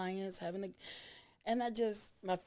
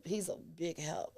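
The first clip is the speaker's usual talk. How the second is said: ordinary delivery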